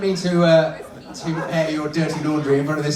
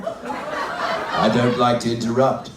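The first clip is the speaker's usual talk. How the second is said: slow husband puppet; drawn-out deadpan reply; lightly voiced husband dummy; man's dummy voice; 3 semitones lower, much slower than usual. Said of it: "What about a voice like this?".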